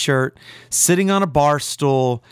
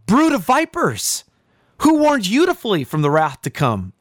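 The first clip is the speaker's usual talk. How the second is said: prophet's rebuke, higher on Brood of vipers; crying out like a prophet; 3 semitones higher than usual. Retold or imitated. Preacher voicing John crying out at the multitudes, stern rebuke. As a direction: cry it out as John would to the crowd. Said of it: "and he's crying out".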